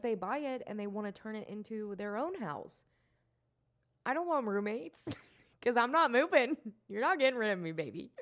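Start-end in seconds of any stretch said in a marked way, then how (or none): 4.0-8.1 laughing defiance. Real, not acted.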